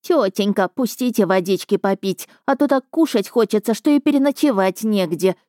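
mock sugary pleading beggar; hammed-up simpering plea; baby-talk lisp. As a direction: lisp it like a whiny child, then spit. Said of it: "И просюсюкал".

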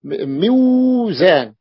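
م-، موزان drawn out slowly and deliberately; slow clear pronunciation. Shown as a demonstration. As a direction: restart and stretch موزان for the class. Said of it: "ميزان مف".

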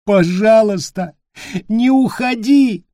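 put-on child breaking into sobs; desperate crying child; sobbing plea. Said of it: "Вопли Питера перешли в рыдание".

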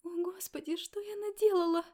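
a pregnant stranger sobbing in the doorway; breaking into sobs. A narrator's reading. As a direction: burst into tears on the last words. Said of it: "разрыдалась у меня в тамбуре".

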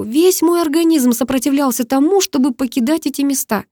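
usual speaking voice

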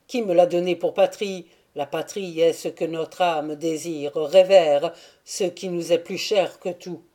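plus fort et plus grave, exalté; Andry déclare à la jeune fille qu'elle est sa patrie; serment passionné. Acted. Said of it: "obstinément". (déclaration exaltée, plus forte et plus grave)

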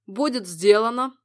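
eager. A narrator's reading. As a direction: blurt it out eagerly. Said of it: "воодушевлённо выпалил Адеон".

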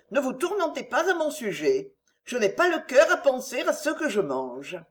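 a gentle noblewoman begging him not to worry; Marguerite's voice. Acted.

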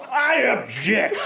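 high, drawn-out call; hammed-up interrupting shout; dramatic objection. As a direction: cry out to halt a wedding. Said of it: "You hear a voice go".

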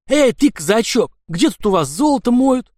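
put-on swagger over the young Cossack; loud mocking demand; rough anarchist.

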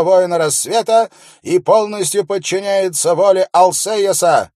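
loud, high proclamation to the crowd; confident royal steward. A narrator's reading. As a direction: read the decree out with confidence. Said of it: "но он звучал достаточно уверенно".

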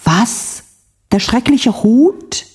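a hammed-up shriek of dismay; shocked cry. A narrator's reading. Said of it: "schrie sie". (entsetzter Aufschrei)

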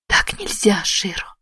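whispered on a breath. A narrator's reading. Emi breathes it to dying Shiro, whispered. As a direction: breathe it out, barely voiced. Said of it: "выдохнула она".

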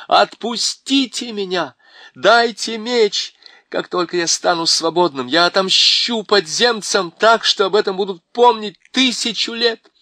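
loud, high raging prisoner's cry; frenzied shout. A narrator's reading. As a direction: roar out the threat like a madman breaking loose. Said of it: "Голос пленника перешёл в крик". (яростный крик, громко и высоко)

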